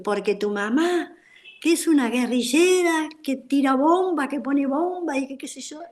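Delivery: half-shouted retold accusations; retold ranting. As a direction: imitate a kid's taunting tirade. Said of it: "empezó a vociferar".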